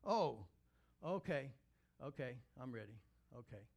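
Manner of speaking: imitating her startled ohs, then settling; imitated startled reaction. Stunned woman answering the pastor, imitated startled reaction. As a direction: act out her startled readiness. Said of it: "She goes like this".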